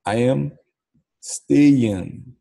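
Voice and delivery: "I am staying" spaced out word by word; pronúncia didática. Shown as a demonstration. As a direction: model "I am staying" slowly, pausing before "staying". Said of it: "É assim que se pronuncia". ("I am staying" pausado, para o aluno repetir)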